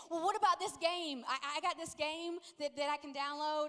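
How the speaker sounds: lightly voiced kid bargaining; pleading son. Son trying another game on mom, eager.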